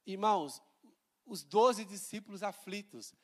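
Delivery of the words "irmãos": normal talking voice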